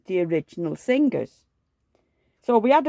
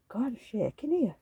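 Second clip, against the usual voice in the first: whisper; 3 semitones higher, 5 dB quieter than usual. Real, not acted. Hands shaking while cutting nail.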